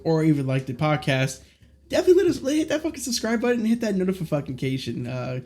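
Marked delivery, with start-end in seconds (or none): 1.9-5.1 tripping over words; stumbling, rushed words; stuttering. Real, not acted. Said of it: "I'm stuttering".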